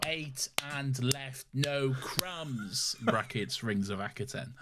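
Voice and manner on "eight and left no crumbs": EIGHT... AND... LEFT... NO... CRUMBS, slow and evenly punched; "Eight and left, no crumbs" word by word, a beat after each; pause between each word. Shown as a demonstration. Reading a subject line with clapping emojis, separate beat on each word of "Eight and left, no crumbs". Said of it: "has the clapping emojis in between each word".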